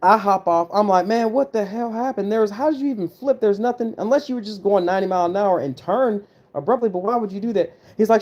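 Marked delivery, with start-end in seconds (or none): 1.0-7.8 higher-pitched, incredulous questioning; retold demand to know what happened; alarmed disbelief. Acted alarmed questioning of injured buddy.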